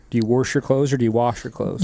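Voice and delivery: first "wash" with an r, like "worsh", second "wash" plain; regional variants. Shown as a demonstration. Friend asking about dialect, two pronunciations of wash. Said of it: "just like saying wash or wash".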